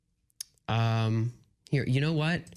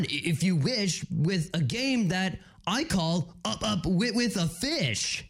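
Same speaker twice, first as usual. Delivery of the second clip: skateboarder voice; 4 semitones higher than usual. Acted. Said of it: "a surfer and a skateboarder".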